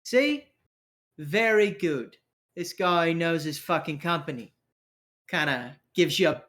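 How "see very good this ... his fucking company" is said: approving crew member. Acted. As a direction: crow approval like a cocky rogue. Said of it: "Kinda nods and goes".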